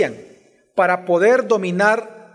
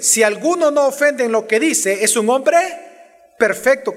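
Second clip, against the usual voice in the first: mildly sarcastic quotation; understated irony, rising on "hombre"; 3 semitones higher than usual. Acted. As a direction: quote it with a touch of sarcasm. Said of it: "Ese es un sarcasmo".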